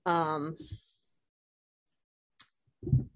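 catching her breath; breathless from crying. Real, not acted. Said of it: "trying to catch my breath".

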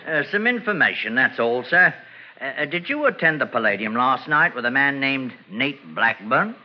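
put-on English police accent, polite and proper; a crook faking an English accent to pass as a police sergeant; fake English accent. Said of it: "What became of your English accent?".

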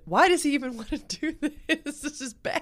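high, exasperated inner monologue. Retold or imitated. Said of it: "And I was thinking in my head".

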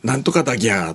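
mock Nagoya dialect. Pill-taker slipping halfway to Osaka, in mock Nagoya dialect. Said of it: "名古屋まで来てる".

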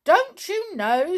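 high, loud pixie outcry; shouted. A narrator's reading. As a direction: call it out like excited pixies. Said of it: "shouted all the pixies together".

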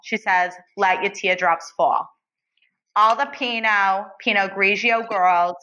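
put-on lightly done tipsy Jersey accent. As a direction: read the lyrics in a Jersey accent. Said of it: "in your best Jersey accent".

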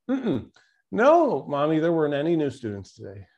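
put-on high little-girl voice saying no; sweet small child correcting mom; little girl answering her mother. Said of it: "the little girl says".

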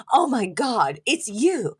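high, gushing mock-starstruck voice; gasp, then gush like a thrilled fan; imitated excited squeal of recognition. Imitating a fan spotting TV doctor.

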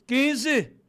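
high, loud comeback; re-enacted auction shout; shouted bid. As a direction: outbid him with a yell. Retells his shouted counter-bid.

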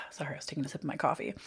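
whispered aside. Real, not acted. Apology after sipping coffee.

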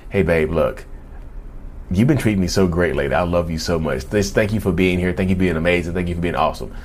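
butter them up sweetly; sweet praise. Retold or imitated. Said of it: "and saying".

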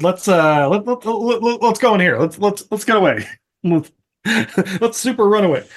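high, stammering panic; a hammed-up scared stammer; mock panic. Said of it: "And Reggie's like".

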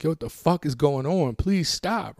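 high-pitched mock-tearful pleading; imitated distress, rising into a high plea; retold screaming, crying. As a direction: act out begging someone to stop, without real tears. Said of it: "I'm screaming and crying at this time".

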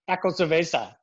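"Taco cerveza" in a playful, lightly put-on Mexican Spanish accent with rolled vowels; mock Mexican accent. Shown as a demonstration. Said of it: "You sounded Mexican right there".

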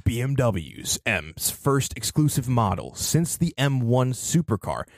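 slow, dramatic announcer read. Shown as a demonstration. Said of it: "read it in an announcer voice too".

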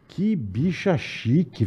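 soft, very slow aside; quiet, drawn-out reaction; retold admiration. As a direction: murmur it slowly, as a remembered thought in awe. Retells his admiring first reaction.

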